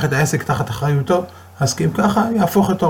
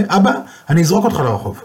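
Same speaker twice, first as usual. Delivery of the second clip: angry son; 6 semitones higher, faster than usual. Retold or imitated. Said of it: "הבן כעס".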